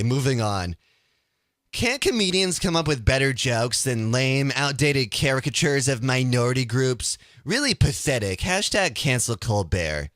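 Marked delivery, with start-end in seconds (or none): 1.7-10.1 whiny voice. Acted. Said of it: "read them in a whiny voice".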